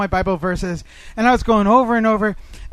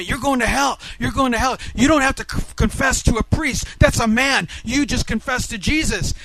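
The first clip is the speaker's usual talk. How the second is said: raised, higher retold harangue; yelling; 4 semitones higher than usual. Man harangues Catholic about confession, mild retold yell. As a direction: imitate the man's heated haranguing. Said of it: "he's yelling at me".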